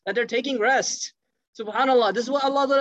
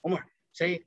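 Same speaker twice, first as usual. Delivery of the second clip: softer, lower aside; hint at whispering an instruction, voice lowered; retold whisper; 4 semitones lower, 6 dB quieter than usual. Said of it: "whispers to Umar".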